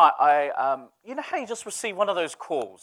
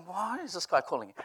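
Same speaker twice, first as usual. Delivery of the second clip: puzzled mutter; 7 dB quieter than usual. Retold or imitated. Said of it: "I'm going".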